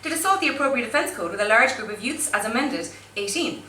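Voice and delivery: steady official reading of legal wording; formal charge-sheet read. Acted. Reading court wording to the audience, formal and deadpan.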